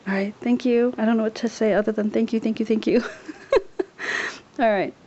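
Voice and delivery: excited, half-whispered gushing; hushed whispering. Real, not acted. Thanking a friend for gifts while others nap, hushed whispering.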